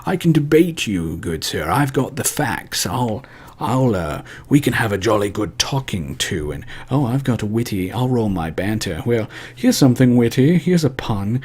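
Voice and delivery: light pompous French dandy; French mustache twirler. Retold or imitated. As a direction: twirl the mustache, smug and witty. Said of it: "the French mustache twirling".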